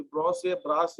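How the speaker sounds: "ब्रॉस" then "ब्रास", vowel shifting from aw to aa; children's misreading. Shown as a demonstration. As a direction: read the short form as "ब्रॉस" or "ब्रास", one syllable each. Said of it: "बच्चे ब्रॉस ब्रास पढ़ते हैं".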